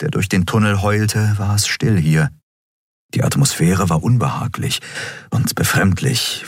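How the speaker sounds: plain reading voice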